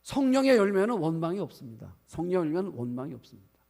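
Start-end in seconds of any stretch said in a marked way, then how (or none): 0.0-2.0 louder, higher, with weight on 성령의; emphatic declaration. Real, not acted. Preacher to congregation, louder on 성령의. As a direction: proclaim it, hitting 성령의 hard.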